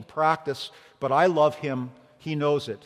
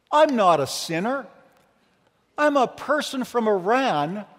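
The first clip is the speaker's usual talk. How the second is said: raised, insistent retelling of Mandy; quoting Mandy; 4 semitones higher than usual. Retold or imitated. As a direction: voice her protest, pitched up and firm. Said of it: "I wish I could speak in her Persian accent".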